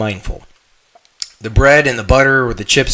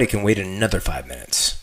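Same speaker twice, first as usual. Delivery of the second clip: soft unvoiced whisper; hushed aside; 5 semitones lower, 6 dB quieter than usual. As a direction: breathe it like a secret to yourself. Voicing a tempting inner thought.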